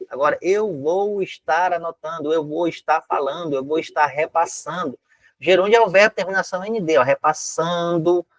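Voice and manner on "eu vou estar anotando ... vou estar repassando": slow, evenly drawn-out recitation; measured demonstration of over-formal phone speak; gerundism example. Shown as a demonstration. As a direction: drag out each gerund phrase slowly. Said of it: "isso é o gerundismo que nós falamos".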